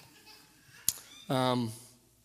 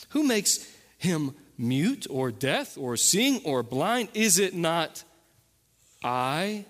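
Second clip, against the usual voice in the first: slow, deliberate reading of God's words; weighty pauses, building through the questions; scripture reading. Acted. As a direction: read scripture aloud with measured emphasis.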